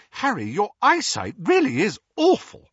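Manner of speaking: put-on a bright young witch teasing; Hermione. A narrator's reading. Hermione teasing Harry as she puts on glasses. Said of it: "said Hermione".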